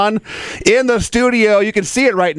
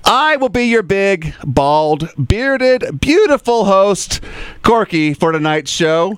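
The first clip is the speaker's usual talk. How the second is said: radio announcer; 2 semitones higher than usual. Acted. Radio host opening the show.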